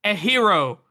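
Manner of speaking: rallying. Acted. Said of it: "And he says".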